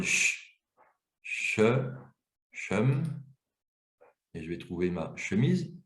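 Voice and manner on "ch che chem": long "ch", then add one sound each time; sound-by-sound encoding. Shown as a demonstration. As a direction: build "ch", "che", "chem" with pauses. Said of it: "donc j'encode".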